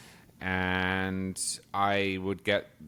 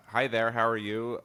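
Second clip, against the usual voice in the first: put-on American drive-thru greeting; amateur go at an American accent; attempted American accent; 3 semitones higher than usual. Shown as a demonstration. Drive-thru worker greeting a customer, attempted American accent. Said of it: "let's hear the accent".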